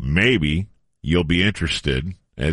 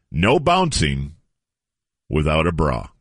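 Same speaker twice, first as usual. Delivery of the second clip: newspaper headline read. Acted. Host reading an old headline to co-hosts, deliberate news read. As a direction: let each piece of the headline land.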